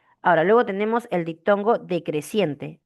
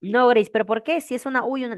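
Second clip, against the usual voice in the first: lightly voiced puzzled student, pitched higher; mock student objection; 5 semitones higher, faster than usual. Teacher voicing a student who questions the rule, mock objection. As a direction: lightly imitate a student protesting.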